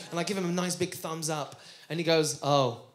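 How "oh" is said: low, slow Japanese thanks as the chef; imitated sushi chef. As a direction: drop low and draw out the chef's reply. Imitates the sushi chef's reply.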